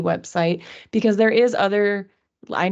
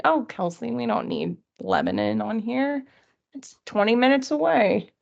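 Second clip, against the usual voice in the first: lightly mocked objector, pitched a little up; slightly put-on voice of a complaining colleague; 3 semitones higher than usual. Imagined group member objecting to the resource list, lightly put-on voice. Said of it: "why I did that voice".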